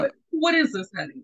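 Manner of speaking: put-on playful Southern-accented fussing. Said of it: "I'm going to adopt a Southern accent".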